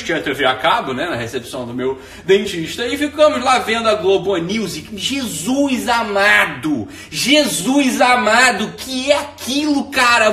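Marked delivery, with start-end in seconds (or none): 5.0-10.3 exasperated disbelief. Real, not acted. Appalled by the news channel.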